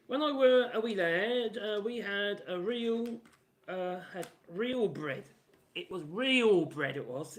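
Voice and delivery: put-on slow, old-timer northern accent, like a nostalgic bread advert. Reminiscing about childhood real bread, in a slow northern accent. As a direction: drawl it out in a northern accent, misty-eyed about the old days. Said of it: "northern accent".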